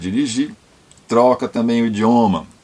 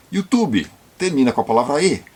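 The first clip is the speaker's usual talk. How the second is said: normal talking voice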